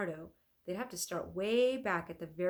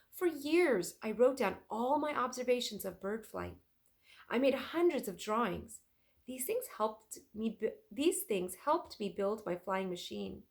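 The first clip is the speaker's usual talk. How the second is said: louder, passionate inventor explaining; fervent old master recounting work; earnest Leonardo; 3 semitones higher, 4 dB louder than usual. Acted.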